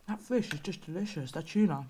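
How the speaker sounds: talking through a mouthful; mouth full. Real, not acted. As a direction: chew while you speak. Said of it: "I'm talking with my mouth full".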